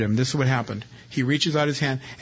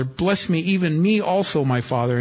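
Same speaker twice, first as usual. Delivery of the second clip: bitter cry; 4 semitones higher than usual. Acted. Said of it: "cried out with an exceedingly great and bitter cry".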